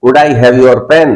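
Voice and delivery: slow, deliberate teacher model for the class to repeat; very slow dictation pace; slow model phrase. Shown as a demonstration. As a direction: spell it out slowly so students can copy. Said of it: "मैं दिखाता हूँ आपको".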